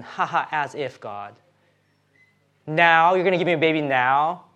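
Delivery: understated sour, sarcastic disbelief; a put-on "ha ha" with mild bitterness; bitter mock laugh. Sarah answering God's promise of a baby, mildly bitter. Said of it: "a laughter that's coming out of bitterness".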